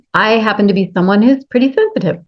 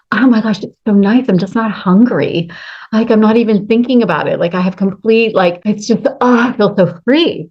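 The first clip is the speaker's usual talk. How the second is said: gushing friends; 3 semitones higher than usual. Retold or imitated. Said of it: "You hear your friends and people saying".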